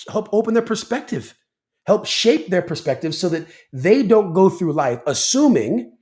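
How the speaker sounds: rising, insistent conviction; passionate. Real, not acted. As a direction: press the point home with heat. Firmly answering the reporter.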